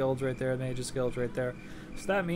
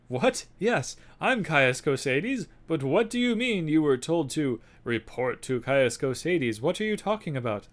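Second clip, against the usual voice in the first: put-on slow, raised, puzzled old spymaster; Caius Cosades voice; 3 semitones higher, 5 dB louder, slower than usual. Spymaster questioning the new arrival, puzzled and slow. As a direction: voice the confused spy boss, drawn out. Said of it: "I don't know why he talks like that".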